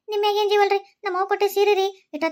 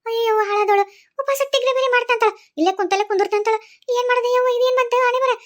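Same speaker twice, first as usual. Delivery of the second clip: mock lament; 3 semitones higher, 3 dB louder than usual. Mother-in-law laments loudly.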